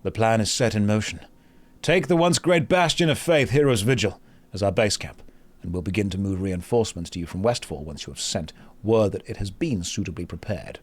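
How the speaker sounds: in-game script read. Acted. Streamer reads quest script to viewers, in-character narration.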